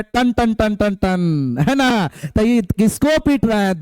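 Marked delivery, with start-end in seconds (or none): 0.0-1.6 bicycle bell imitation. Shown as a demonstration. Teacher imitating a cycle bell to explain metallic sound, slow chime. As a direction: chime each टन slowly like a bell. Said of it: "घंटी बनाए".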